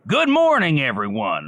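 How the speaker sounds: a hint of a different persona saying good morning; another voice. Asked for other voices, he greets the room. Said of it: "Can you do any other voices?".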